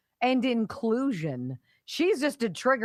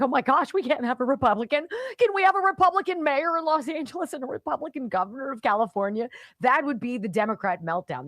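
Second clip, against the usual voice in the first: mock freakout; 7 semitones higher than usual. Host imitating activist freaking out, high panicked mockery. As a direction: play a hysterical activist. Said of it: "She's freaking out".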